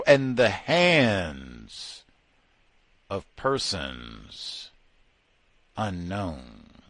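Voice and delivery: very slow, dragged, sinking phrase; drawn-out mock solemnity. Sarcastically intoning the verdict again, very slow. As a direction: stretch each word out heavy and grave.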